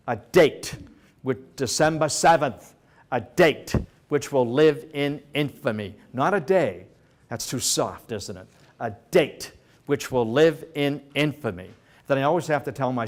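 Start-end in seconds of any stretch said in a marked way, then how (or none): 0.1-6.0 lightly imitated presidential address, weighting key words; a hint of solemn speechmaking; Roosevelt. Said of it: "Roosevelt didn't, you know, typically speak like that". 8.8-11.7 lightly imitated presidential address, weighting key words; a hint of solemn speechmaking; Roosevelt. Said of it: "Roosevelt didn't, you know, typically speak like that".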